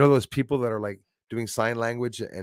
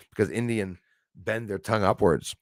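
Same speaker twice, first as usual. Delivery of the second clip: normal talking voice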